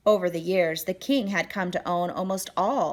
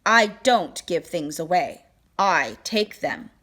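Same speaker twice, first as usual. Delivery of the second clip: haughty king; 4 dB louder than usual. Acted. Greedy king retorts.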